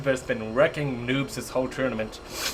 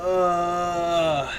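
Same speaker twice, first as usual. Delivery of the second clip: groan. Real, not acted. Groaning after laughing at game.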